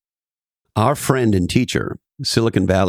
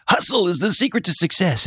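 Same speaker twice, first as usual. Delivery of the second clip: much higher, mock-inspirational guru voice; mock guru slogan; 9 semitones higher than usual. Mocking gurus' LinkedIn quote graphics, much higher. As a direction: parody a LinkedIn hustle post. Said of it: "with things like".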